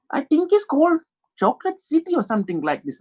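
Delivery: high mock Asian accent. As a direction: put on an Asian accent, voice lifted. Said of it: "As you heard the Asian accent".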